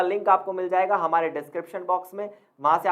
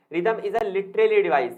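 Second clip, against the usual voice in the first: dictating a definition; 4 dB louder, much slower than usual. Shown as a demonstration. Reads a definition slowly.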